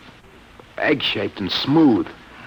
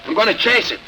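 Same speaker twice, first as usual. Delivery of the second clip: tense pilot report; 3 semitones higher than usual. Acted. Reliving the flight in trance.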